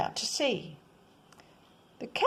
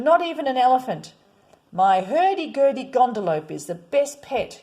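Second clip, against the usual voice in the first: put-on eager child; 2 semitones higher, 5 dB louder than usual. Boy defending his pet.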